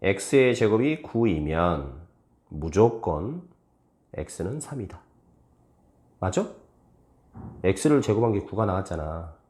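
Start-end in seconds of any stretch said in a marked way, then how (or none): 0.0-5.0 slow reading, 무조건 isolated by pauses; deliberate read-aloud, pausing either side of 무조건; model reading with 무조건. Shown as a demonstration. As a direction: set 무조건 apart as its own beat. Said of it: "그럼 이거 읽어봐".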